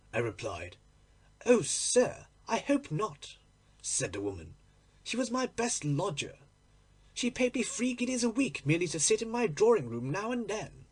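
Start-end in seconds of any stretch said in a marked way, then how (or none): 1.5-10.9 a touch of a dismayed landlady. Acted. Landlady dismayed at death news.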